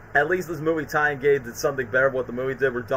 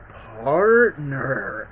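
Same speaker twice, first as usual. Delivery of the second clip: a quizzical, slightly different voice on Partner?, falling at the end; Partner? said as a doubtful question; puzzled echo; 3 semitones lower than usual. Retold or imitated. Max echoing Peter's word back, puzzled.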